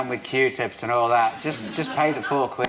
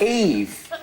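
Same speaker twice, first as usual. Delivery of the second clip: snake puppet voice; 3 semitones higher, slower than usual. Acted. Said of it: "I do a little puppet".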